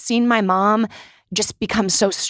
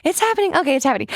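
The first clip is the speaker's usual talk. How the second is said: mock panic; 4 semitones higher, much faster than usual. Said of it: "the scene in Bridesmaids".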